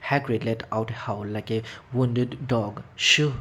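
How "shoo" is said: loud, sharp shushing hiss. A narrator's reading. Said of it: "hissed Professor McGonagall".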